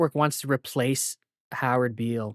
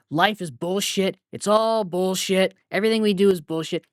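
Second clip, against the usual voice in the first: ranting anchor; 5 semitones higher, 3 dB louder than usual. Retold or imitated. Anchor ranting on air that life is bullshit. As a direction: rant it like a fed-up newsman, picking up speed. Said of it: "and he's going".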